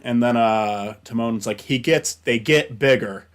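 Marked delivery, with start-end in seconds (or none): 1.6-3.3 slow, dry sarcastic retort; a hint of knowing sarcasm, drawn out slowly. Timon mocking Pumbaa's plan, slow mild sarcasm. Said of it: "he says it, like, very sarcastic".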